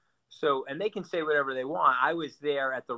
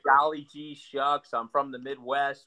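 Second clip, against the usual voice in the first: slow, folksy imitation of Midwestern niceness; mock Midwestern accent. Mocking a guy who fronts as Richie Cunningham, lightly hammed Midwestern accent. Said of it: "Midwestern, uh, you know, i-, inoffensive accent".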